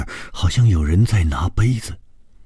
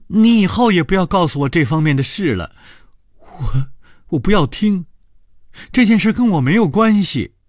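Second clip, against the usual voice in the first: panicked shouting; 12 semitones higher than usual. A narrator's reading. Secretary refusing to hear more about the matter, panicked shout. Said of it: "高伟大声地说".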